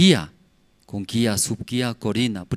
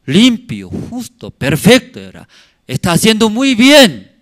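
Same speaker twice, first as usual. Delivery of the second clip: elogio divino; 8 semitones higher, 8 dB louder than usual. Acted. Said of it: "pero Dios, qué va a decir".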